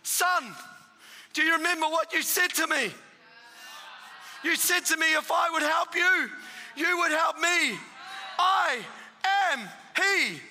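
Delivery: a hint of a booming divine voice; voice of God. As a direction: proclaim it like a voice from above. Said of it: "And it said these words".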